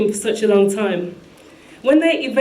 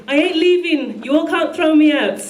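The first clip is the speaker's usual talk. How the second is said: higher, imitated Trinidad accent protest; attempted Trinidad accent; 5 semitones higher than usual. Man lifted by guards protesting, attempted Trinidad accent. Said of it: "I can't do a Trinidad accent".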